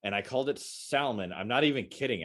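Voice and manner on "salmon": "salmon" with the L sounded; "salmon" with a hard, audible L; mispronounced salmon. Shown as a demonstration. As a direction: say "salmon" as SAL-mun. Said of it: "I heard the word salmon as salmon".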